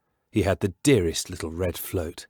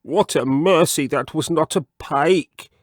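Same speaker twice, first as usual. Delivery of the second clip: higher, louder relieved frog; 7 semitones higher, 4 dB louder than usual. Acted. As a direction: gasp out relief after escaping. Mr Jeremy Fisher's voice.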